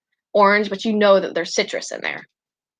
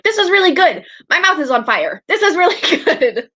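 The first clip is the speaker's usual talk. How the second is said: pained fake praise; 9 semitones higher, 3 dB louder than usual. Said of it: "I'm gonna be like".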